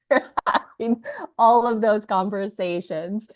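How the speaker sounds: losing her voice, hoarse. Real, not acted. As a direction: speak with a hoarse voice. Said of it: "I sound like I've lost my voice today".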